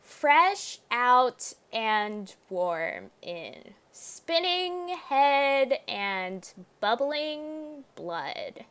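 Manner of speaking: slow, drawn-out read of the game text; slow dramatic reading. Shown as a demonstration. Streamer reading the game's eerie lines aloud, slow. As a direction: savour each eerie word.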